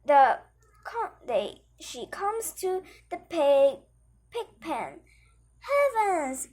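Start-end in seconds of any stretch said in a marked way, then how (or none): 5.7-6.5 startled high exclamation; shocked cry. Acted. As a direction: gasp out Heavens in mild shock.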